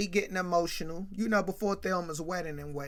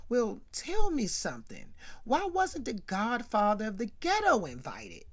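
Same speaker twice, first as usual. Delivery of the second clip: mock menacing demand, pitched higher; threatening; 5 semitones higher than usual. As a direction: lean on him like a ghetto godfather. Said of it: "in a threatening manner".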